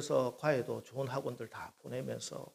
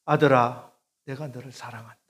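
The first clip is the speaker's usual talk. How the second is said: calling voice of the Lord; 7 dB louder than usual. Acted. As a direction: call 아들아 out, then ease back. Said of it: "주님의 음성이었어요".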